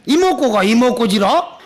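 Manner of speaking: lightly imitated Jeolla dialect question. Young Jeolla man checking the monk's words, imitated Jeolla dialect. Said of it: "순수한 전라도 말로".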